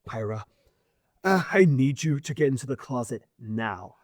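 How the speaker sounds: understated, nervous urgency; urgent mentor. Acted. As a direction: press the order without raising your voice. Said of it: "calmness in his face replaced by urgency".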